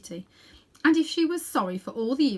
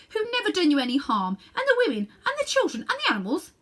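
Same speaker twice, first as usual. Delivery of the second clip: pleading; 10 semitones higher, 5 dB louder than usual. A narrator's reading. Polly pleads with Queen.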